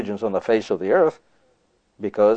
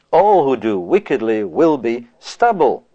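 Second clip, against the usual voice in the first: scripture reading; 3 dB louder, slower than usual. Acted.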